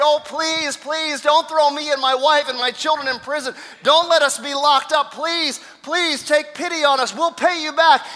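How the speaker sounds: high, loud, urgent plea; desperate begging. Acted. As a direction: plead desperately, acting out the indebted servant. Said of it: "he begged".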